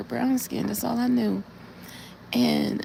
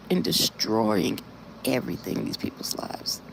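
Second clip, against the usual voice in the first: a low, whispered hush of dread; 11 semitones lower, 3 dB quieter than usual. Real, not acted. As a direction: let the horror sink into a whisper. Describing tornado destruction, hushed.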